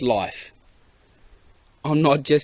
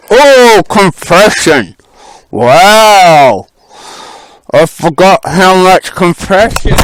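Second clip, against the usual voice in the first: surprised; 6 semitones higher, 15 dB louder, slower than usual. Real, not acted. Surprised by engine compression.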